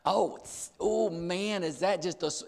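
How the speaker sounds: lightly voiced girl, insincere gushing. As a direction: imitate a girl's fake compliment. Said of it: "The girls".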